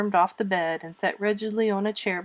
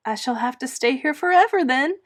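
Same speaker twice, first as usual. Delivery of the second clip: mournful; 6 semitones higher, 5 dB louder than usual. A narrator's reading. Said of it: "said Anne mournfully".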